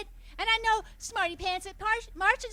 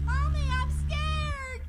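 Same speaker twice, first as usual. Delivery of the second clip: put-on scared child; 5 semitones higher, 4 dB louder, slower than usual. Child as the cylinder opens.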